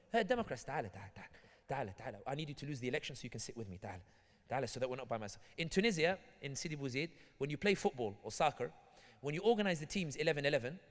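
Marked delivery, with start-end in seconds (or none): 0.1-5.4 coaxing call. Retold or imitated. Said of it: "you're sitting here going".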